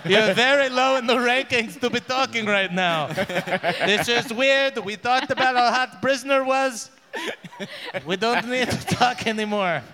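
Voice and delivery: annoyed king. Acted. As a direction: scold the guards, fed up. King scolding guards again.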